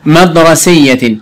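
stretched-out single word; slow teacher repeat of the word; slow reading. Shown as a demonstration. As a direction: say it slowly and clearly. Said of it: "teacher repeats slowly".

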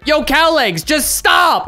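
high, acted plea to stop; hammed-up annoyed demand; mock exasperation. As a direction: read it as a fed-up player. Voices an annoyed player's message.

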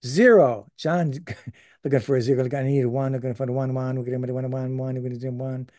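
auctioneer. Pretend. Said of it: "my poorly implemented, uh, auctioneer's voice".

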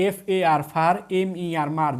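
letters first, then each syllable ফার, মার; syllable-by-syllable demo. Shown as a demonstration. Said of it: "দেখেন একবার উচ্চারণ".

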